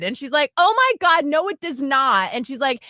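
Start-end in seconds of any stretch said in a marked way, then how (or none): 0.6-2.3 high, loud mock outrage; imitating shouting girl. Girl arguing over a slushie, mock shouting. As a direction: protest like an indignant kid. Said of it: "like, shouting this".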